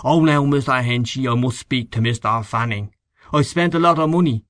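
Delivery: lightly mimicked excuse-maker; mock his pleading excuses; a touch of put-on wheedling; mocking imitation. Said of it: "pay up like a man instead of".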